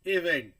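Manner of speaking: इवेंट slow with weight on वेंट; stress demo. Shown as a demonstration. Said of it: "E V E N T है".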